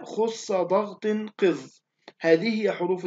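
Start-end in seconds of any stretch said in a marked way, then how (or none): 0.0-1.7 "خص ضغط قذ" drawn out with thickened consonants; slow tafkhim mnemonic. Shown as a demonstration. Teacher repeats the seven letters' phrase, "خص ضغط قذ" slow and heavy. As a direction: spell out "خص ضغط قذ" slowly, heavy on each letter. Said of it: "مجموعة في قولك".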